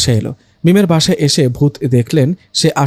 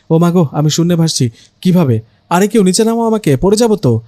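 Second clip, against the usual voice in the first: panicked; 3 semitones higher than usual. Acted. Floating in the air, panicking.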